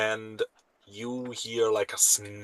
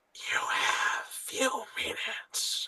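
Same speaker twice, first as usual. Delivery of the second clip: whispered, soft, drawn-out little growl from the throat; 13 semitones higher, 5 dB quieter than usual. Voicing a creature in a dark cargo hold: little growl in the throat. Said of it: "a kind of a little growl in her, in voice in back of her throat".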